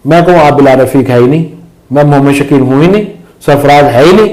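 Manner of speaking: usual speaking voice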